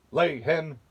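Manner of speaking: booming command to the hen; roaring giant. Acted. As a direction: bark it like a giant. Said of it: "the giant roared".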